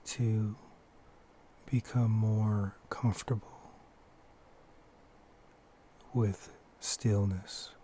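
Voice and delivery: unhurried short phrases, each left to settle; guided meditation. Acted. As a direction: lead them gently into stillness, pausing often. Leads a breathing meditation.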